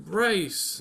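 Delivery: cousin's quick answer. Acted. Voices cousin answering quiz.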